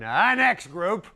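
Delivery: Ed McMahon introducing a band, hammed-up; TV host intro. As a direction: announce the band like a cheesy TV host. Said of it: "Ed be going".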